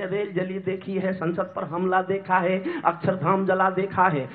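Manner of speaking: measured, rhythmic verse delivery; declaimed verse in a steady cadence; poem recitation. Acted. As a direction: recite it as stage poetry.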